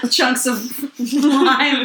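slow, laughing through words; giggling while talking. Real, not acted.

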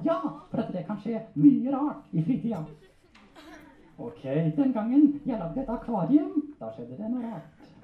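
high-pitched ventriloquist puppet voice; puppet storyteller. Acted. Puppet telling handler about an aquarium, high comic voice. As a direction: speak well above your own pitch as a puppet.

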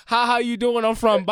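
loud, high mock-girl voice; imitated girl's greeting. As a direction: mimic a greeting tossed out while walking off. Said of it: "walked the fuck off in mid conversation".

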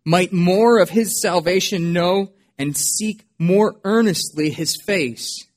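measured, solemn reading of a hymn poem; poem recitation. Acted. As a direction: read it like a reflective old hymn. Reads Newton's hymn poem aloud.

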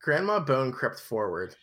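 measured storybook narration; story narration. A narrator's reading. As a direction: read it aloud like a novel. Reads the book aloud.

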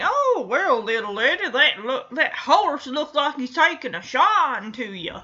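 lightly voiced old stable hand. Old stable hand to little lady, lightly voiced old-timer. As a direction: play a hint of a folksy old horseman. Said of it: "the stable hand here, the old man".

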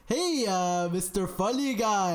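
taunting clerk. Pretend. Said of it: "Now your turn. Do it to me".

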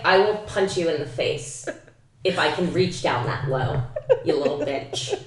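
slow, deliberate comic threat; mock threat. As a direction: spell out the threat slowly, half laughing. Retells comic threat to friend.

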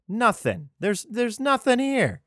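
milk the complaint like a drama queen; mock whining lament. Israelites wailing there's nothing here, high slow whine.

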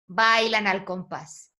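"bailan al compás" slow, as its own verse; measured verse reading. Shown as a demonstration. Teacher modelling the haiku for a student, measured verse reading. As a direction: read the closing verse slowly and separately. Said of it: "debiste de marcar esa pausa".

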